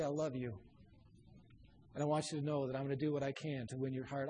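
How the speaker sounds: soft, low and sincere; a quiet heartfelt promise; tender. Acted. Parent promising to win a child's heart, tenderly.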